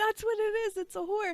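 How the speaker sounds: put-on shrill, very high, loud kid's yell. Retelling a kid yelling to other kids who went back inside: imitating a kid yelling. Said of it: "So he's yelling at them".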